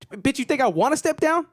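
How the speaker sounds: high, outraged politician voice; indignant politician. Acted. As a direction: scoff as the mayor refusing to quit. Plays the indignant mayor.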